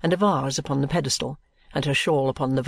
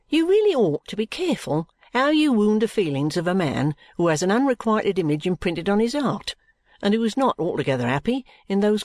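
injured remonstrance; 6 semitones higher than usual. Acted. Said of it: "injured remonstrance".

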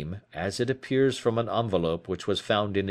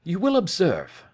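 a lightly raised, crisp detective voice; Holmes; 10 semitones higher, 4 dB louder than usual. A narrator's reading. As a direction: speak up as the sharp detective.

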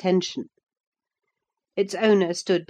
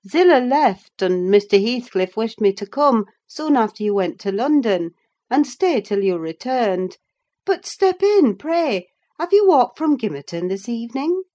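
higher, louder, brisk and welcoming; housekeeper voice; 6 semitones higher, 5 dB louder than usual. A narrator's reading. Housekeeper welcoming the returning tenant, higher and louder. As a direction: bustle him inside kindly.

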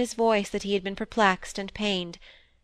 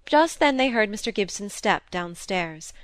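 plain reading voice

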